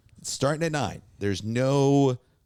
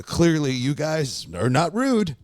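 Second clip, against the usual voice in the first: nervous appeasing; 7 semitones higher, 4 dB louder, slower than usual. Retold or imitated. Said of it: "I go".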